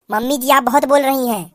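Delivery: a lightly voiced bride whispering her secret plan; sneaky young bride. Bride retorts.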